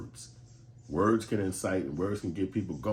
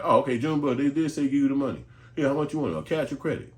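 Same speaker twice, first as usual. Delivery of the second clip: mock compliance; 8 semitones higher, 9 dB louder than usual. Mock compliant payer, sarcastic.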